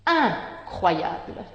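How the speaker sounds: Incroyable said slowly, the nasal in Incroyable drawn out; careful example word. Shown as a demonstration. Teacher showing a spelling, slow and clear. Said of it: "I M".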